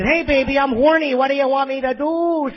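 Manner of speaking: lightly hammed-up Midwestern accent; mock Midwestern come-on. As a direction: imitate a seductive line in a silly Midwestern accent. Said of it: "If Pamela Anderson talked like that".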